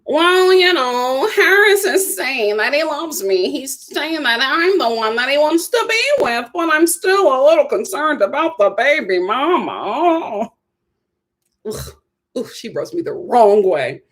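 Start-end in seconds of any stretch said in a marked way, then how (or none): 0.1-10.5 a hint of a fretful woman quoting her man; mocking her cautious tone; imitating her. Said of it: "she's just like".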